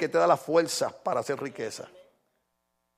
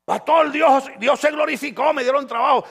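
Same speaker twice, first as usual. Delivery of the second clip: happy news; 6 semitones higher than usual. Retold or imitated. Church member telling the pastor of a new job, excited. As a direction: burst in with good news. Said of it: "member reports answered prayer".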